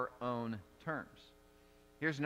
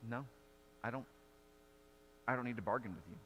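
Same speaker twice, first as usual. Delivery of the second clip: softer, calm, unhurried refusal; calm Jesus; 4 semitones lower, 8 dB quieter, much faster than usual. Retold or imitated. Jesus calmly refusing Pilate's bargain, soft and settled. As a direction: let it settle quietly, no fight in it. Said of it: "Jesus just calmly says".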